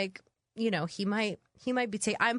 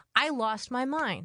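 normal talking voice

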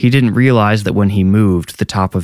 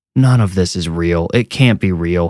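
plain reading voice

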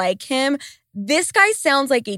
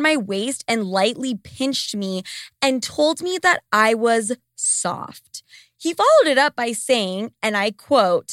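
normal talking voice

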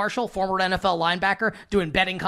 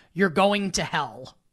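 play-acted, bone-serious, straight-faced, no hint of fun. Retelling what a sister said at dinner: imitating someone saying it straight-faced. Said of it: "with a straight face".

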